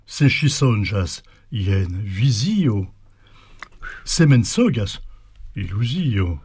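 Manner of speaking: slow, measured verse reading with lilting pitch; poem recitation. Acted. Speaker declaims the translated Béguine poem to the host, poem recitation. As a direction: declaim it line by line, pausing between phrases.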